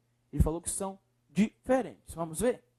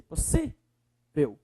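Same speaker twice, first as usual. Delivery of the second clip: "Possível" slowly, leaning on SÍ; stressed syllable; 4 semitones lower, much slower than usual. Shown as a demonstration. Teacher showing the strongest syllable, stress on SÍ in "Possível". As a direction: hold the SÍ in "Possível". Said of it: "é o si".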